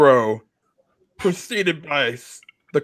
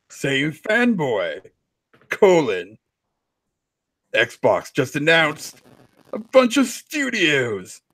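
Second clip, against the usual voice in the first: dramatic reading; slower than usual. Acted. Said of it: "dramatic readings of Console Warrior tweets".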